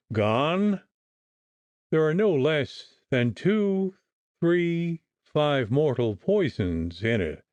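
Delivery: slow, hammered-out counting; emphatic acerbity. A narrator's reading. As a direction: bang out each number sourly. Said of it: "said the doctor with emphatic acerbity".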